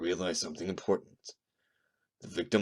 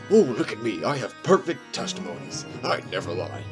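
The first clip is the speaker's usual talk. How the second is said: higher-pitched sarcastic mimicry of a boaster; mocking imitation; 4 semitones higher, 3 dB louder than usual. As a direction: parody the rival, pitch bouncing up. Mocking the rival witness.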